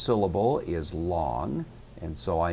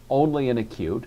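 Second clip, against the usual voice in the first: usual speaking voice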